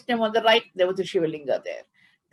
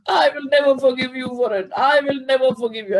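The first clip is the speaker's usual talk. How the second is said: higher, louder furious outburst near tears; 6 semitones higher, 5 dB louder than usual. A narrator's reading. Namdev furious at Panduranga for public insult, shouting. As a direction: rage at the god who shamed you in public. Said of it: "Namdev was furious".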